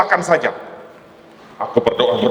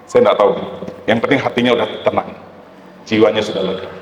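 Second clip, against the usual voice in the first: ordinary delivery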